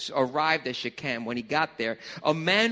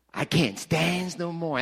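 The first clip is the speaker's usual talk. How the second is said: Popeye quote; slower than usual. Retold or imitated. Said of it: "he pops open the spinach".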